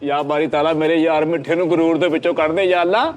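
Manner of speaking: hammed-up pleading to God; mock prayer. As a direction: pray theatrically for his proud friend. (ਮਖੌਲੀਆ ਦੁਆ)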